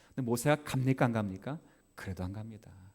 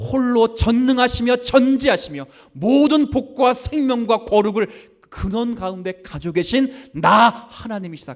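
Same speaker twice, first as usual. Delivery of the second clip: high, loud sung-out preaching over music; fiery preaching; 10 semitones higher, 15 dB louder, slower than usual. Acted. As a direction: preach it out, building fervor.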